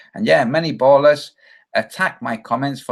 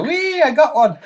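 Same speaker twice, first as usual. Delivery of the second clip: much higher, playful cheer of a joyrider; mock gleeful whoop; 13 semitones higher, 3 dB louder than usual. Imagined UFO pilot cheering a hit, hammed up. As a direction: squeal it like a kid on a ride.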